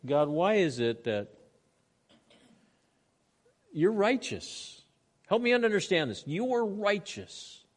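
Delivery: slow, high, bewildered prayer; puzzled pleading. Acted. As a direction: stretch it out as if you can't understand. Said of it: "He says".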